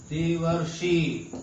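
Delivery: देवर्षि said slowly syllable by syllable; slow sounding out. Shown as a demonstration. Teacher slowly sounding देवर्षि for students. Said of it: "देवर्षि में देखो".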